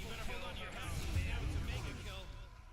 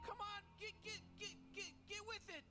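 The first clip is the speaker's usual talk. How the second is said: excited; 12 semitones higher, 10 dB quieter than usual. Real, not acted. Urging a teammate on.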